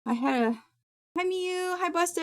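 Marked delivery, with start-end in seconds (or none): 1.2-1.8 high pet-talk voice. Real, not acted. Greeting pets in cute voice. 1.8-2.2 high pet-talk voice. Real, not acted. Greeting pets in cute voice.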